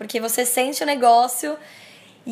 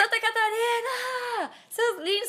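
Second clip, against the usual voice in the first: excited shout-out; 10 semitones higher, 4 dB quieter than usual. Real, not acted. Greeting the fan's home state.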